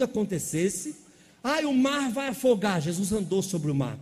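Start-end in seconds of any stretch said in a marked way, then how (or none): 1.4-2.8 mock panic. Disciples panicking in the storm.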